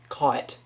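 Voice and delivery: "caught" as CAW-ut, slight extra syllable; southern half-syllable. Shown as a demonstration. Showing viewers the southern half-syllable pronunciation. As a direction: glide through "caught" with half a syllable added. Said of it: "a half a syllable on the end".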